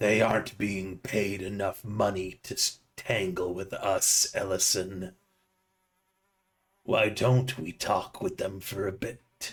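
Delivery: very deep, dark, low gravel-toned voice. Narrator voices a creature speaking to Ellison, in a dark, low, gravelly voice. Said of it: "it chuckles that in that dark, low, gravelly voice and says".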